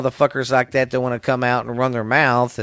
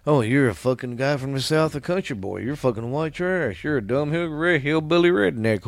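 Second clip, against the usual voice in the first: softer, sneering mock voice; mocking imitation; 5 dB quieter than usual. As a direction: mimic a critic's stereotype insults under your breath. Mockingly voices stereotype insults thrown at Southerners.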